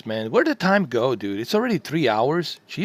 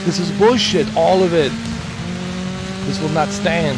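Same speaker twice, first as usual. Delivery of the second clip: shaking with anger; 2 semitones higher than usual. Real, not acted. Keeps raging at the rival.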